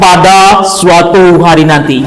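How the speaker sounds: "Pada Suatu Hari Nanti" drawn out slowly, stress on "Pada"; slow, weighty title with expression. Shown as a demonstration. Teacher showing students expressive title reading. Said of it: "Jadi dinaikkan intonasinya".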